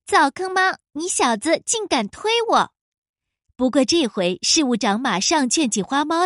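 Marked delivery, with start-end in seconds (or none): 0.1-2.7 high, furious yell. Acted. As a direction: scream it in outrage. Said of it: "气急败坏地叫起来".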